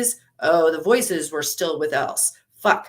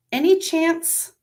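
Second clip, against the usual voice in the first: pleading; 11 semitones higher, 5 dB louder, slower than usual. Acted. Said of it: "words really did catch in her throat".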